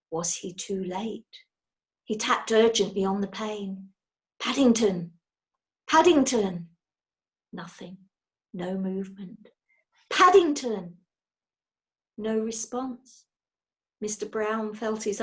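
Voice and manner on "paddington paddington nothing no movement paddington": louder urgent calls of the name; urgent calling. A narrator's reading. Father calling the unconscious bear, urgent calls. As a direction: call through the glass, pleading.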